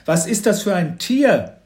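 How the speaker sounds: loud, high-pitched bewildered father; called out. A narrator's reading. Father asking about the seized animal, loud call. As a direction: call out the question in alarm. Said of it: "rief Papa".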